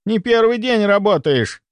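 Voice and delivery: high-pitched exasperated rebuke; sharp scolding. A narrator's reading. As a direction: scold a fumbling junior nurse. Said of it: "прикрикнула на неё старшая".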